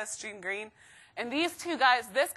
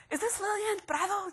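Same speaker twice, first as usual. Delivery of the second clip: official caller; 9 semitones higher, 4 dB quieter than usual. Retold or imitated. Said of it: "And she's like".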